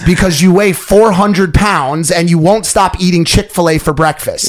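lightly put-on TV reporter delivery; a touch of news-anchor cadence; mock newscaster. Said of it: "the newscasters be like".

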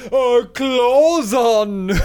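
high, slow, laughing monster voice; monster growl. Pretend. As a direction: stretch it out like a clawed monster. Monster claws joke.

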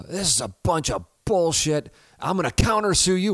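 high, loud, indignant courtroom blowup; mock the defendant's furious rant, rising to a yell; angry outburst.

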